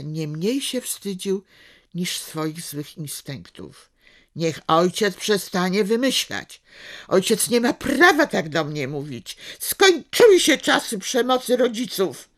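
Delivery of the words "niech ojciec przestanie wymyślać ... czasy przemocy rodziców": hoarse yell. Acted. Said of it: "wrzasnął ochrypłym, mutującym głosem".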